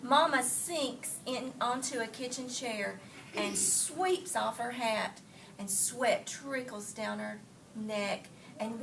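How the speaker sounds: put-on expressive read-aloud for children; story reading. A narrator's reading. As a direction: read the story to the class, lively. Teacher reads picture book aloud.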